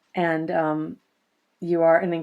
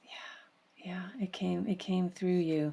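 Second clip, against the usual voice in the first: barely voiced, soft agreement; hushed whisper; 11 dB quieter, slower than usual. Real, not acted. Host whispers agreement to Mary Jo's insight. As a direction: breathe the yes in a whisper. Host softly affirms guest.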